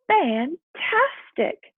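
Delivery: high, loud, drawn-out fantastic; amazed exclaim. Acted. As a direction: let the wonder stretch the word. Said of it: "Hoppy exclaimed".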